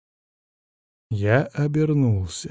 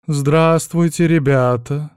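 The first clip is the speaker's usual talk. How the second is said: slow, louder languid greeting; sultry voice; 4 semitones higher, 4 dB louder, slower than usual. Acted. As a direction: drawl it out seductively. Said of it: "излишне томным голосом".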